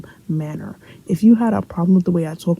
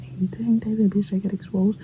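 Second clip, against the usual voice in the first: hushed, whispery gossip; gossiping classmates; 2 semitones higher, 5 dB quieter than usual. Retold or imitated. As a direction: imitate a whisper in passing. Passing classmates gossip about her.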